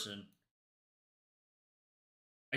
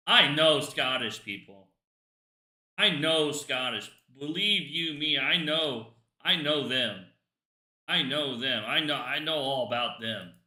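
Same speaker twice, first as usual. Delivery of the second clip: louder, slower put-on Scottish accent; mock Scottish accent; 4 dB louder than usual. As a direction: boast it in a hammed-up Scottish accent. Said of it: "No, that's Scottish".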